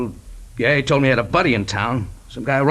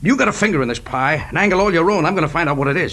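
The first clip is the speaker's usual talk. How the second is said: angry; 6 semitones higher than usual. Acted. Pilot accuses detective, rising anger.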